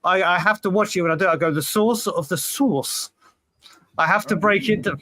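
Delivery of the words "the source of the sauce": slow, careful "source of the sauce"; broken down carefully. Shown as a demonstration. Showing how to watch it, "source" and "sauce" slowly separated. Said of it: "I have to break it down".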